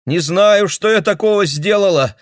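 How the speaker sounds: high, loud tearful reply; girl answering through the bathroom door; upset girl through door. Acted. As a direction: call through the door, shaken. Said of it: "отозвалась девушка через дверь".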